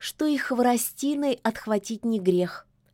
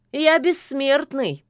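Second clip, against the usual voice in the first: louder, higher snide reminder; 6 semitones higher, 5 dB louder than usual. A narrator's reading. Koschei snidely reminds the witch, louder and higher. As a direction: needle her with it. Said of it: "ехидно напомнил Кощей".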